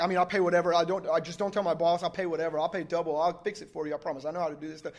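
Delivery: imitated run-on apology, no gaps; breathless pleading. Driver begging truck owner not to tell his boss, imitated breathless rambling. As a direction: babble promises as if unable to stop for breath. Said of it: "like, can't get a breath".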